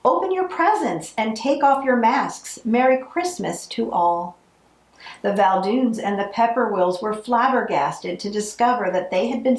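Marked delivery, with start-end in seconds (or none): 0.0-4.4 exclaiming. Acted. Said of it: "Gloria exclaimed".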